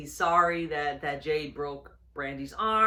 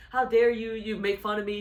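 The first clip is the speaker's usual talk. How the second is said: louder, higher, imitating an offended shout; mock angry outburst; 5 semitones higher, 3 dB louder than usual. A wrestler retelling Brandy's outburst at Shaq, mock angry. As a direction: play the insulted wrestler snapping back. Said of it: "And Brandy was really mad".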